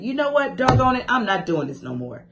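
acted anger, starting high then firm; fed up, mad. Coach modelling getting mad at her own habits, fed up. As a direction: put your foot down in mock exasperation. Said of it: "You gotta get mad at it".

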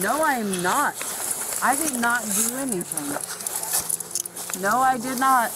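angry shouting. Real, not acted. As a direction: protest the arrest, shouting. Woman protesting her arrest.

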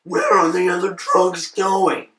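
slow, deliberate interrogation; Batman voice. Acted. Repeating the question to a baffled friend, slow Batman voice. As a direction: repeat the demand slowly, word by word. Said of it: "That's Batman".

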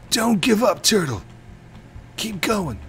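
loud, high-pitched rallying cry; urgent cheering on. Pretend. Gamer to lagging Turtle, high loud urging. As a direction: call out encouragement, high and urgent.

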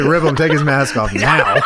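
quoted command through laughter; laughing mock order. Co-host joking about Ray losing his mask, laughing. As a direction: give the order while cracking up.

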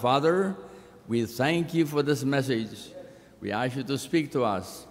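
solemn pastoral prayer. Acted. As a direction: pray aloud for the congregation. Pastor leads opening prayer.

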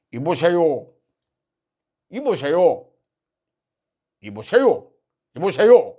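half-hearted imitation of a polite scolding "이보세요"; Moon Jae-in impression. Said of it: "성대모사가 안 돼갖고".

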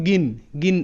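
গিন said with emphasis; stress on গিন. Shown as a demonstration. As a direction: put the weight on গিন. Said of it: "একটু জোর দিয়ে উচ্চারিত".

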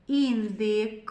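"Індик" with the final "к" released separately; last sound singled out. Shown as a demonstration. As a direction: pop the "к" at the end of "Індик". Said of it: "зробимо звуковий аналіз слова".

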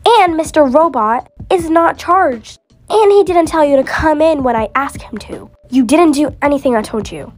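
loud, stern boss scolding; angry boss. Acted. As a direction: scold the late worker. Boss scolds a late worker.

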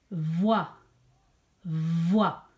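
"voix" stretched out, low in pitch; dictated syllable. Shown as a demonstration. Teacher tells pupils to write the syllable, drawn-out "voix". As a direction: say "voix" long and distinct, then repeat it. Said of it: "écrivez la syllabe".

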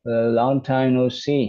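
slow, careful reading of the English text for learners; slow read-aloud. Shown as a demonstration. A teacher slowly reading the English story to learners. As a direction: read each word out slowly and clearly.

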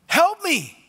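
high, loud desperate cry. Acted. Mother begging Jesus, high loud desperate cry. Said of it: "what a cry of a desperate mother".

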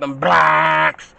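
low, drawn-out blacks; deep emphasis. Shown as a demonstration. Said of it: "I'm just emphasizing it really, really big and deep".

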